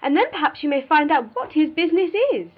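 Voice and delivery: high, loud, rapid prying; excited cry. A narrator's reading. Mrs Jennings hoping to learn his business, excited cry. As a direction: squeal it out with nosy glee. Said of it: "cried Missus Jennings".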